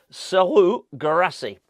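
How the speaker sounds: name said with a French accent; a hint of French on the striker's name. Shown as a demonstration. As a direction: give the name a French lilt. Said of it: "I said the first bit with a French accent and then Serhou Guirassy".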